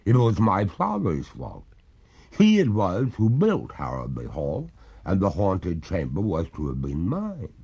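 slow, mournful maiden ghost; wistful spirit recounting. Acted. Ghost tells her story.

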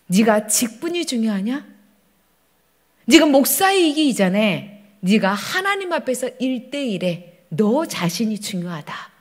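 slow, measured voice of admonition; Holy Spirit. Acted. God admonishing the pastor about position, slow solemn rebuke. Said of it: "성령 하나님이 음성이 나한테 주시는".

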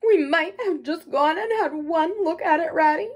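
high, loud tearful wailing; sobbing brokenly. A narrator's reading. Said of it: "he sobbed forth at last brokenly".

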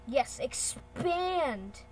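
drawn-out, rising-then-falling "expand!"; excited command. Pretend. Talking to the computer while resizing, excited command. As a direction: stretch out a gleeful expand.

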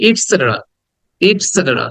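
"ইটসেটেরা" run together with short "it"; quick, short sound. Shown as a demonstration. Teacher models short sounds, quick joined "ইটসেটেরা". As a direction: say "ইটসেটেরা" as one quick word. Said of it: "এটাকে দ্রুত বলতে হবে".

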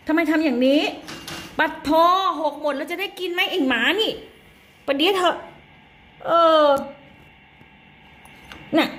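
high, exasperated mock scolding of a naughty dog. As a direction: tell off the dog like a fed-up mom, pitched high. Mother scolds dog Latte. (ดุหมาเสียงสูงแบบแม่บ่น)

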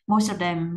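teacher stressing "Most" in a read-aloud drill. Shown as a demonstration. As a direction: punch the word "Most" and let "of them" fall away. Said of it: "mình sẽ nhấn vô".

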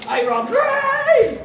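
very high, loud drawn-out yell; over-the-top imitated shout. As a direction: holler it like a hammed-up announcement. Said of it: "You idiot, stop yelling!".

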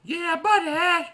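high, slow, stretched hype call; hyped greeting. Real, not acted. Greeting his viewers with a drawn-out hype call. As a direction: open loud and stretched like a wrestling host.

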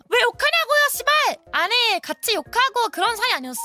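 high-pitched, indignant outburst; acted angry retort. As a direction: fire back like a wronged sibling. Acts out retort she held back.

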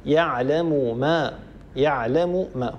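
يعلم ما said slowly with both mims voiced apart; slow example, no merging. Shown as a demonstration. Teacher showing students two separate mims. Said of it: "هنا أيضًا لا إدغام".

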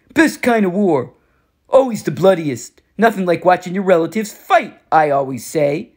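lightly voiced cocky war god, taunting; a hint of a swaggering bully, amused; smug war god. Ares on family war.

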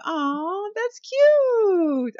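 high squealing gush over something cute. Real, not acted. Cooing at a sweet moment in her game, high squeal. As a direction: melt at the cute scene, up high.

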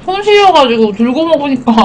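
talking past spoon; about to take a bite; spoon at lips. Real, not acted. Seen 0: Wooden spoon of red beans held at her lips while speaking.

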